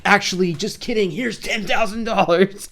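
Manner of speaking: mock excited reveal. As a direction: parody a video host springing the big surprise. Acting out giveaway video host's reveal.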